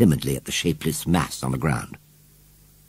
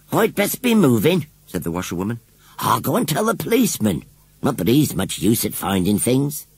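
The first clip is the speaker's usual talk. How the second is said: put-on higher, fretful old washerwoman telling her woes; 5 semitones higher than usual. Washerwoman telling the children about her washing, fretful. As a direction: play the put-upon village washerwoman, complaining.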